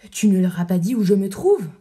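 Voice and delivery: loud, alarmed demand. Acted. Cyrano panicking that the crowd will find him. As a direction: blurt it out in a panic. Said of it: "Cyrano épouvanté".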